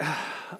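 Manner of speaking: short, soft sigh of discomfort; uneasy sigh. Retold or imitated. Pastor recalling an awkward church question, uneasy sigh. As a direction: let out a small, hesitant sigh.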